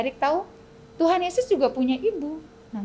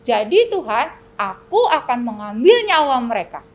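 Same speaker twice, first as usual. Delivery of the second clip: loud, higher jeering devil; devil mocking; 6 semitones higher, 5 dB louder than usual. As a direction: taunt like a sneering devil. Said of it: "Iblis bilang". (iblis mengejek dengan suara tinggi)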